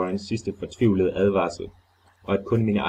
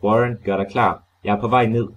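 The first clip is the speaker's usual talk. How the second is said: firmly called down, a bit louder; 2 semitones higher, 5 dB louder than usual. Acted. Carter calls down to Warren, a firm shout. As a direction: shout down the hole resolutely. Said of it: "råbte med det samme til ham".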